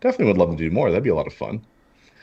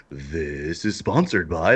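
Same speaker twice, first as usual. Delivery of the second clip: slow announcer read; voiceover announcer; 3 semitones lower, much slower than usual. Shown as a demonstration. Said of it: "if I really wanna do, like, a voiceover".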